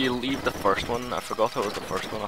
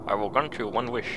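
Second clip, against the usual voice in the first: grandly granting a wish; 2 semitones higher than usual. Pretend. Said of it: "I'm gonna do it in that voice now".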